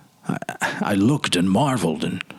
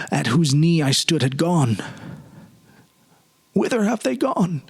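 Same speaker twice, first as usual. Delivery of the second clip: rising anguish; 6 semitones higher than usual. A narrator's reading.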